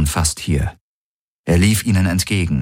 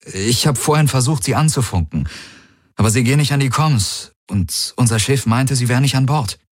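a touch higher, feigned concern; lightly voiced worried friend; 6 semitones higher than usual. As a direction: sound casually worried. (leicht gespielte Sorge, etwas höher)

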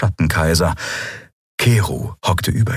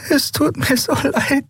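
high, slow and tearful; crying out the apology. A narrator's reading. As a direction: Endriel weeping over the tiny fairy. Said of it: "weinte Endriel".

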